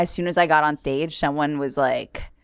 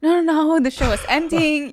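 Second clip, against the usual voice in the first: retold reassurance; 10 semitones higher than usual. Soothing a crying heckler.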